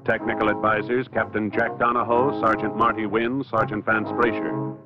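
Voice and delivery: normal talking voice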